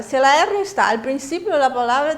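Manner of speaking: "la R" with a rolled trill; Spanish rolled R demo; trilled initial R. Shown as a demonstration. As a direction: vibrate the R at the word start. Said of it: "tienes que vibrar".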